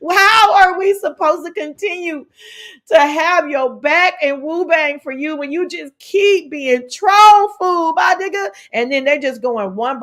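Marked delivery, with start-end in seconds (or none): 0.1-8.5 higher, exasperated mock pleading; acted fan begging, easing off from the wail; clamoring plea. Imagined fans plead with him, hammed-up exasperation. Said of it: "they are clamoring to talk to him".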